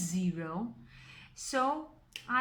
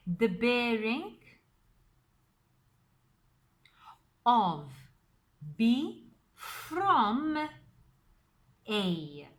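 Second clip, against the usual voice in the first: "from" drawn out, louder and set apart by pauses; spaced-out phrase with a weighty "from"; stress on from; 3 dB louder, much slower than usual. Shown as a demonstration. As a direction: read it out slowly, leaning hard on "from". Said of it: "I'm putting emphasis on the word from".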